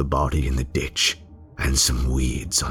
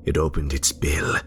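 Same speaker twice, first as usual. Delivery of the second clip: cold whisper. Acted. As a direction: breathe it out, savouring every cut. Narrating cutting the bird's throat.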